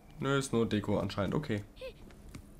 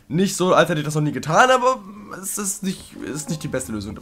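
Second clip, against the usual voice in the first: worked-up rant; 4 semitones higher, 4 dB louder than usual. Real, not acted. Frustrated rant about quitting.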